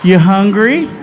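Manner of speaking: put-on coaxing baby-talk to a drunk friend; talking to a toddler. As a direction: coax him like a two-year-old. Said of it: "He talks to me like I'm two".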